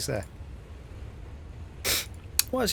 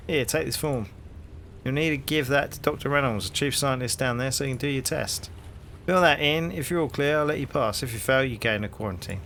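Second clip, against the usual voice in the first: hearty London copper, rising into the question; cheery Cockney policeman greeting a stranger; cockney bobby; 2 semitones higher than usual. Acted. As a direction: play the nosy beat cop on his rounds. Policeman hands form.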